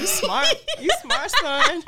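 mock praise. Teasing quote.

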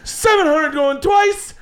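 slow, high auctioneer going once; slow, high mock auctioneer; auctioneer count. Auctioneer closing sale.

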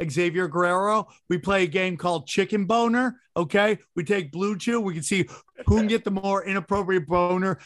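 hammed-up sponsor ad read. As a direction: sell it like a cheesy radio spot. Reads a sponsor ad.

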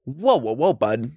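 lightly mocked redneck Canadian; hint of a Canadian hick accent. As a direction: put on a rural Canadian "bud". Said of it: "a really redneck Canadian accent".

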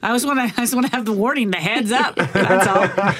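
chuckling through a teasing joke; giggly, playful warning request; laughing. Real, not acted. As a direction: laugh it out as you tease. Joking about mistletoe warning.

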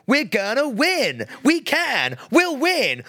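high, slow, chanting rally cry; mock cheerleader. Mocking Americans to the bar patron, a high cheerleader chant. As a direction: ham up a peppy cheerleader. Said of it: "all you do is go".

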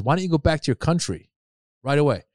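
the lady snapping at mom; mock hostile lady. Imitating racist lady.

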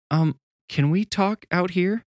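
nervous. A narrator's reading. Babysitter scared of the snake.

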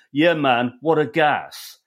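posh mockery of hip slang; fairly posh accent. Blues singer mimicking pop singers' slang, fairly posh accent. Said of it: "in a fairly posh accent".

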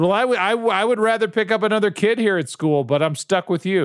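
lightly voiced fed-up father; mock stern dad. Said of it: "I said".

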